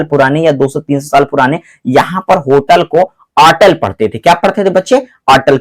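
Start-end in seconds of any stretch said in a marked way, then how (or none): 3.4-3.7 अटल, hotel said without its H; old silent-H pronunciation. Shown as a demonstration. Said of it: "एच silent हो जाता था". 5.3-5.6 अटल, hotel said without its H; old silent-H pronunciation. Shown as a demonstration. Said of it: "एच silent हो जाता था".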